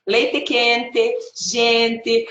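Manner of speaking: "leite quente, gente" in a Curitibano accent. Shown as a demonstration. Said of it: "I do say in Portuguese".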